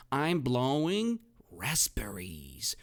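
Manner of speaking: hushed, drawn-out reveal; secret whisper. Shown as a demonstration. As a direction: whisper the answer slowly like a secret. Teacher reveals answer in whisper.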